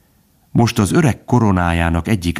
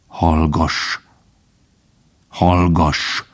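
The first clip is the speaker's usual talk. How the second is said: gently scolding; much slower than usual. Acted. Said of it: "szelíden feddő hangon".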